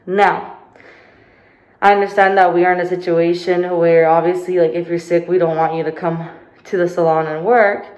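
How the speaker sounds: loud, exasperated venting; frustrated rant. Real, not acted. Venting frustration about coworker.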